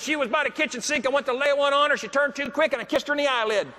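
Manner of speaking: high-pitched, tickled storytelling that breaks into a laugh; excited retelling. Retold or imitated. Husband sharing the botched kiss with the speaker, high and amused. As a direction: tell the mishap bursting with glee. Brian tells the kissing mishap.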